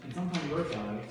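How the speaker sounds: phrase held up after "I"; pause after I. Shown as a demonstration. Teacher showing student where to break the line, pause after "I". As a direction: rise slightly on "I", then pause. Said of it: "slight pause".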